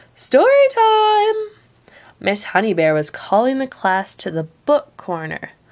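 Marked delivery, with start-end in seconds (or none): 0.2-1.4 jolly, booming, very high and loud. Reading a picture book, narrator voices the call to the book corner: Miss Honey Bear's loud jolly call. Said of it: "a loud, jolly voice called out".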